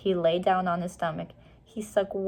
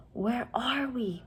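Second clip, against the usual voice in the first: softer, slow whisper; hushed question; 5 semitones higher, 5 dB quieter, slower than usual. A narrator's reading. Annie peering into the misty night, whispered. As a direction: ask it softly into the dark. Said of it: "whispered Annie".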